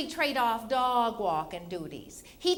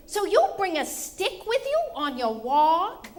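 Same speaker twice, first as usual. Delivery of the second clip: higher, louder disbelieving question; mock incredulity; 5 semitones higher, 4 dB louder than usual. Wife questions husband about his walking method, incredulous. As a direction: challenge him as if it's absurd.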